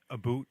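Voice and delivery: "a boot" for "about", vowel as in "food"; Canadian-style "about" said as "a boot"; mock Canadian pronunciation. Shown as a demonstration. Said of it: "my Canadian accent is".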